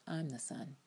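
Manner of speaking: breathy unvoiced whisper; whispered realization. Recapper voicing Fitz's quiet revelation, whispered. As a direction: whisper it like a secret epiphany.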